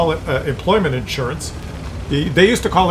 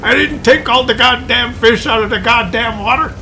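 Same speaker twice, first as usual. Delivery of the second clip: quoting angry outburst; 7 semitones higher than usual. Retold or imitated. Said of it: "he just got mad and he says".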